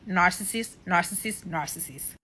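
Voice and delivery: repeated word fading to soft; narcissist, fading mutter; muttered verdict. Real, not acted.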